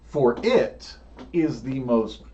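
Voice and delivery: dramatic scene setting with long pauses; measured, suspenseful storytelling; game master narration. Acted. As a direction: draw out the big moment, leaning on the vivid words.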